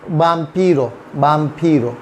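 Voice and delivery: वाम्पीरो begun as BAM, not VAM. Shown as a demonstration. Teacher giving learners an example, वाम्पीरो starting with B. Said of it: "ये बी की ही तरह pronounce करता है".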